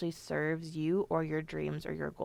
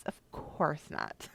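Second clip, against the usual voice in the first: slow and quieter, flatly dismissive; dry deadpan; 3 semitones lower, 5 dB quieter, slower than usual. Real, not acted. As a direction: state it dryly, no smile yet. Deadpan answer, then laughing retake.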